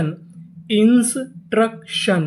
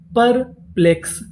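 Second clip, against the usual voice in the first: slow syllable blend; परप्लेक्स stretched slowly, syllables joined; 3 semitones higher, slower than usual. Shown as a demonstration. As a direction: build the word slowly for learners. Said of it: "और आगे एक्स है".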